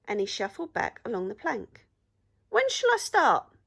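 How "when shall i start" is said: high, loud keen troll question; eager troll. A narrator's reading. Troll asks the pirates when to start, eager and high.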